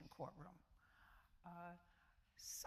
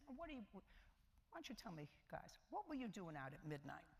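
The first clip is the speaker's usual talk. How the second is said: a hint of a Southern judge quizzing the boys; thick Southern accent. Judge questions three young kids in a light mock Southern accent. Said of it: "in a thick Southern accent, I asked the question".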